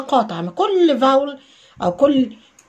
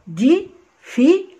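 dee, fi stretched slow and high; drawn-out syllables; 6 semitones higher, much slower than usual. Shown as a demonstration. Teacher breaking difficult into syllables slowly. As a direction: draw out each syllable. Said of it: "splitting syllables".

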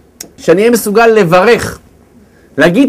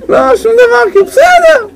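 very high, squeaky mock reassurance; put-on unbothered; 14 semitones higher than usual. Man insisting he is not upset, comic high-pitched denial. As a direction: pitch it way up, pretending all is fine. Mimics someone insisting all is fine.

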